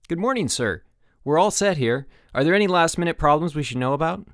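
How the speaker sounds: lightly voiced keen young counselor; eager head counselor. A narrator's reading. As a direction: report in, ready for orders. Head counselor reports to director.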